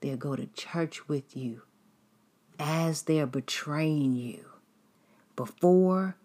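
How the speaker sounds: normal talking voice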